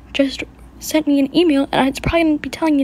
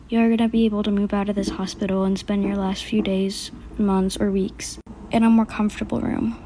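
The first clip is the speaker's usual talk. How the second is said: lower, softer doctor breaking bad news; doctor telling the sick girl she has weeks to live, hushed and grave; somber doctor; 3 semitones lower, 4 dB quieter than usual. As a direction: gently deliver the terminal diagnosis.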